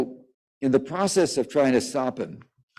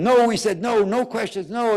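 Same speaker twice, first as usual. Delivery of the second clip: high-pitched mock scream, not much louder; imitated screaming; 11 semitones higher, 3 dB louder than usual. Press secretary shutting down reporters, imitated high-pitched yelling. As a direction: act out someone screaming a refusal. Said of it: "the press secretary is screaming at him".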